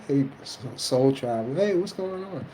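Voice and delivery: lightly mocking carefree hello; casual tourist. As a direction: play a careless visitor strolling in. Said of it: "and you go".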